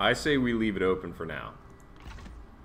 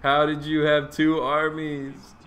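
surprised exclamation; 7 semitones higher, 6 dB louder than usual. Real, not acted. Sudden enemy army appears.

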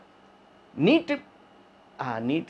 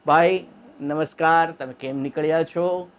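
polite police. Shown as a demonstration. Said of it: "આવી રીતે કરાય".

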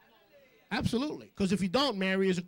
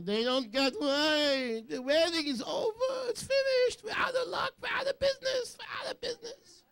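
much higher, wailing mock Jewish mother; frantic Jewish mama. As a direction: wail like a panicked Jewish mother at a wedding. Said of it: "like a nice Jewish mama".

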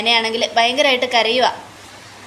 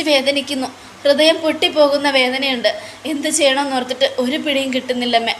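higher, lightly tearful pleading; mock sobbing plea; 3 semitones higher than usual. Nayana begging her mother-in-law for a solution, mild tearful plea. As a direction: beg for a way out, lightly acted crying. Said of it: "Nayana പൊട്ടി പൊട്ടി കരയുക".

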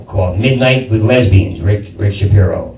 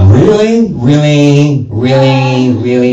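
put-on girly incredulous; slower than usual. Comic acting an LA argument, girly incredulous. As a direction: whine it like a catty girl. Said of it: "talk like a girl".

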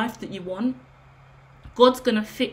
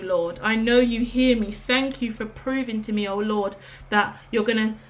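heartfelt prayer. Real, not acted. Speaker thanking the Lord in prayer, heartfelt and emotional.

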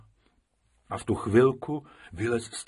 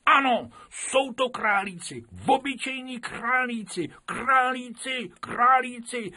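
much higher and louder, chanting; the whole class shouting at the teacher; children calling out; 13 semitones higher, 5 dB louder than usual. Acted. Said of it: "začali volat všechny děti". (volání dětí, mnohem výš a hlasitěji)

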